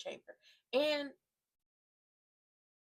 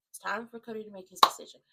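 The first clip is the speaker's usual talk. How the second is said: louder, punching the word time; announcer build; 6 dB louder than usual. Shown as a demonstration. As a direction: announce it to the arena.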